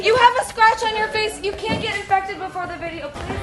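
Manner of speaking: high, loud alarmed scolding. Real, not acted.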